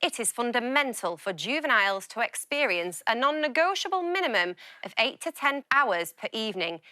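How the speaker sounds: lightly posh, formal reading; a hint of a grand posh reader. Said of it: "My posh voice".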